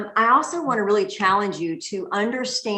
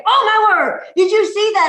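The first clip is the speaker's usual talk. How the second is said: excited loud yell, higher; mock yell; 8 semitones higher, 4 dB louder than usual. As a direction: shout it like he spotted something amazing. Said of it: "yells as loud as he can".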